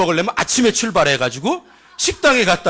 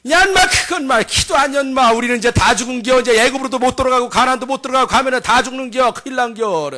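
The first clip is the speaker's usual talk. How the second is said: high Chungcheong wail of doom; mock despair in rolling Chungcheong speech; Chungcheong dialect; 3 semitones higher than usual. Spy tells villagers all is lost, Chungcheong accent. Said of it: "충청도 버전으로".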